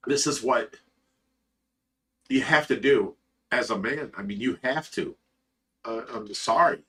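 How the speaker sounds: low, soft voice, fighting back real tears; choked up, crying. Real, not acted. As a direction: struggle to get it out, softly, through tears. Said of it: "you got me crying again".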